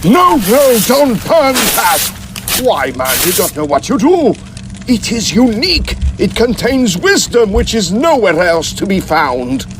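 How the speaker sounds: high, desperate begging; frantic pleading. Acted. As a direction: plead in panic to save the scroll. Begs them not to burn papyrus.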